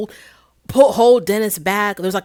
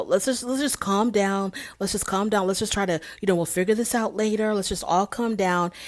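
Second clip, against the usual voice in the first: softer, calming voice; soothing; 5 dB quieter than usual. Retold or imitated. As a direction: talk him down gently, a touch softer. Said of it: "Simon is trying to diffuse the situation".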